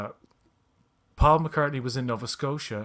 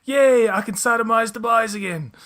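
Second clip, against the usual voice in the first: loud, high mock cheer; hammed-up jubilant cry; gleeful Newfoundlander; 8 semitones higher, 9 dB louder than usual. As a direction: imitate a cartoon Newfoundlander celebrating. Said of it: "There's a funny line where the Newfoundlander's like".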